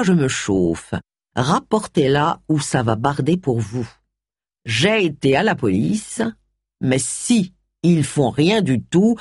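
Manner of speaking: lettre de menace lue lentement; déchiffre lentement, mot à mot; lecture à haute voix. A narrator's reading. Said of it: "Charles qui lut tout haut". (lecture lente d'une lettre)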